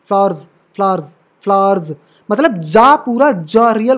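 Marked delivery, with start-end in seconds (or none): 0.1-1.9 फ्लावर्स as "flaarz", buzzed z; correct Z ending. Shown as a demonstration. Teacher drilling the plural for students, z ending. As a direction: repeat फ्लावर्स, each ending in voiced z. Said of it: "वो एस को हम ज पढ़ते हैं".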